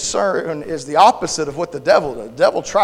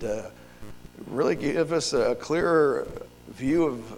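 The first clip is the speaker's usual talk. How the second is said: softer, unhurried praying voice; prayer; 3 semitones lower, 7 dB quieter than usual. Real, not acted. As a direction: pray earnestly, easing down from preaching. Leads a prayer.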